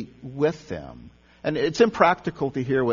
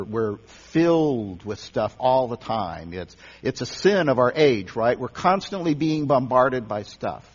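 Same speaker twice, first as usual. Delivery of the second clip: ordinary talk, nothing marked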